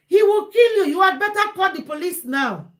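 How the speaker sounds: high, loud alarm on the first words; urgent warning. Retold or imitated. Advising a beaten wife to call police, urgently warning. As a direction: raise the voice to warn of real danger.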